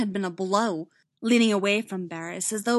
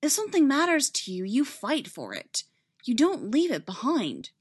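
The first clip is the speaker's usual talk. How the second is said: earnest, emphatic plea; pressing and insistent; impassioned urging; 4 semitones higher, 3 dB louder than usual. Acted. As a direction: urge a friend not to give up.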